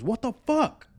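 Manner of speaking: high-pitched panicked outburst, imitated. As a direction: act out a startled, panicky yelp. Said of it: "he's panicking".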